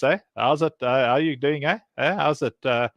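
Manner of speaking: lightly exaggerated South African accent; mock South African accent, hesitant, tacking on "eh"; South African movie-villain accent. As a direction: imitate a stock South African film character. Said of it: "they all talk like this".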